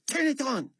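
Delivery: high shouted order; raging repeat; furious demand. A narrator's reading. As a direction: yell it again in rage.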